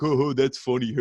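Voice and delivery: mock an old boss chuckling; lightly voiced Vince laughing at his own joke. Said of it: "he was like".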